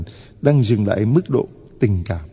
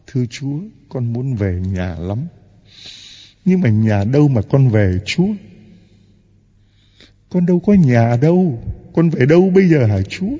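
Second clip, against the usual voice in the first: anguished plea; 4 dB louder than usual. Acted. Homeless person cries out to God.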